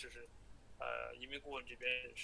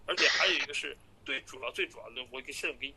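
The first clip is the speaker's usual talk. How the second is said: phone call; 5 dB louder than usual. Real, not acted. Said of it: "直接听一分五十二秒吧".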